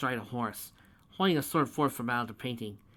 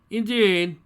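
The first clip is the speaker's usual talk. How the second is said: loud, high pompous indeed; grand drawn-out pronouncement; meaningful indeed; 9 semitones higher, 11 dB louder than usual. Acted. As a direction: load it with self-importance. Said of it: "said meaningfully".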